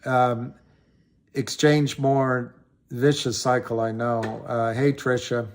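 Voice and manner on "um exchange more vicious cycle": ordinary talk, nothing marked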